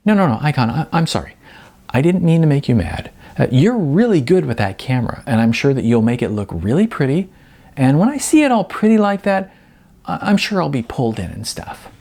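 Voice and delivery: Jasmine's voice. Acted. Jasmine's higher character voice.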